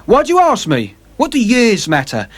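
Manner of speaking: very high, loud impatient retort; impatient sailor. Acted. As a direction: brush the question off angrily. James Vane.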